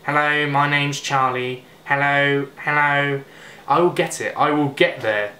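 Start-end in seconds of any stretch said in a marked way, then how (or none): 0.0-3.2 lightly attempted impression, less nasal; Charlie McDonnell. Vlogger retrying the greeting, mild impression, less nasal. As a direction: practise a British vlogger's even greeting. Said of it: "maybe less nasal".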